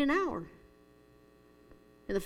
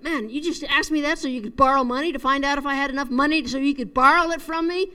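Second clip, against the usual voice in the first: irritated father's tirade, building louder toward the end; retold ballistic rant; 4 dB louder than usual. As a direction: imitate a dad blowing up, moderately heated. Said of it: "the father went just ballistic".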